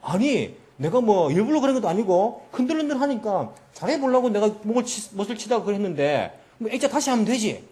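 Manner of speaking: mock-aggrieved excuse-making; angry protest. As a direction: act out a brother arguing back at being blamed. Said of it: "자기도 막 화가 나는 거예요".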